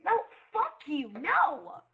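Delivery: angry yell. Real, not acted. Angry reaction in game.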